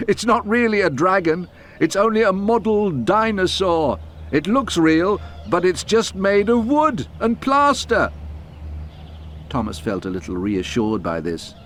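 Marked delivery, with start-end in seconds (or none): 0.1-8.1 chuckling signalman. A narrator's reading.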